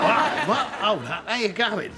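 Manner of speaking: loud, high, cheery hailing; excited greeting. Retold or imitated. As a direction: call out to people as if thrilled to be noticed. Acts out greeting a crowd delightedly.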